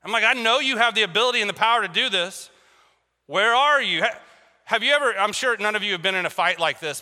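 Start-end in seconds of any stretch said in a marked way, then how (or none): 0.2-4.0 a touch of raised-voice anger; mildly heated, demanding complaint; mad at God. Retold or imitated. Preacher confronting an absent God, mildly mad. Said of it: "sometimes I just get mad".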